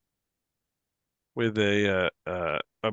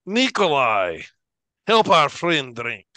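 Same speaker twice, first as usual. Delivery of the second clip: loud, raised voice of a drinker; boisterous call; 4 semitones higher, 7 dB louder than usual. Acted. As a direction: call your drinking buddy over loudly. Drinker calls his pal over.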